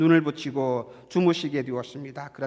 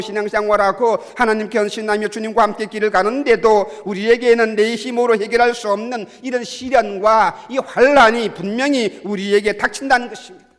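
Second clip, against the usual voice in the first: loud, raised-pitch sermon delivery; impassioned preaching; 5 semitones higher, 9 dB louder than usual. Real, not acted. Preacher tells believers that storms still come, preaching forcefully. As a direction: press the point home with full force.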